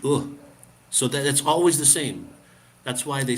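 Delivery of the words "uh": "uh." as a short neutral uh; short uh vowel. Shown as a demonstration. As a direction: say "uh." short and relaxed. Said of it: "a U H".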